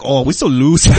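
mock goose voice; Asian goose. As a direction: do a silly goose voice. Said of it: "sounded exactly like an Asian goose".

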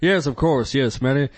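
lightly voiced comedian impression; a hint of a famous comic's voice; Robin Williams. Building the first layer of an impression, lightly voiced. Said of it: "Layer one, Robin Williams".

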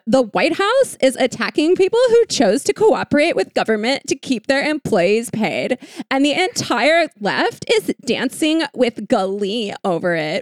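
lightly high mocking pundit whine; a hint of a whiny TV pundit; mock-whiny impression of a pundit, ending in fake sobs; Meghan McCain voice. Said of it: "I guess I'm doing the Meghan McCain voice for this person".

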